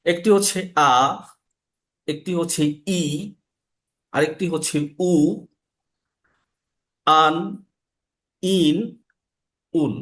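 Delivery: আ, ই, উ, আন, ইন, উন said one by one with pauses; six vowel forms. Shown as a demonstration. Teacher lists alif's six forms: measured, clear. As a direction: spell out the six sounds slowly and clearly. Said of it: "ছয় ভাবে".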